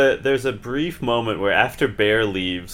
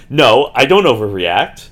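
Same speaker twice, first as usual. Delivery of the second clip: a loud protest, quoted with a light touch; mock overreaction; 7 dB louder than usual. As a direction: overreact while you deny overreacting. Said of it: "gesticulating wildly and going".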